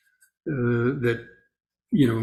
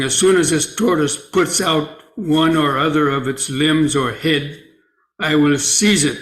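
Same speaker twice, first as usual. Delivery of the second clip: slightly raised, measured storytelling voice; story read aloud; 3 semitones higher, 3 dB louder than usual. Acted. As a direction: read a teaching tale out clearly to the group. Reads the sutta story aloud.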